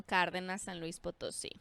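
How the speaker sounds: Cárdenas and San Luis Potosí said with Mexican Spanish vowels and a tapped r; Spanish pronunciation. Real, not acted. Guest names her hometown to the host, in Mexican Spanish pronunciation. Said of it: "There goes that accent".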